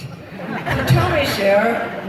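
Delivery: slowed, stretched "So tell me, Cher"; drawn-out host line. Retold or imitated. Retelling Letterman's question to a singer, slow and teasing. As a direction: stretch "tell me" slowly, savoring it. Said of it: "but I like it".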